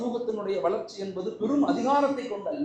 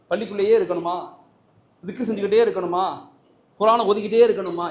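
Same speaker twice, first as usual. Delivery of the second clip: louder challenging questions; loud rhetorical questions; 6 dB louder, faster than usual. Acted. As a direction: press the crowd with each question.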